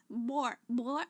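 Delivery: M coming out as a stuffy B; can't hum the M through the nose; blocked nose. Real, not acted. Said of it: "I can't say the M".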